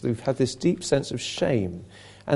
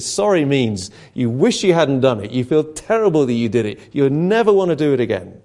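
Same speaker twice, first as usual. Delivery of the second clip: retold anger; 4 dB louder than usual. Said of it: "I remember getting quite angry".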